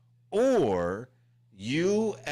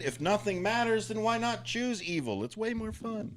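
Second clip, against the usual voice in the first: tempting villain; 9 semitones higher than usual. Acted.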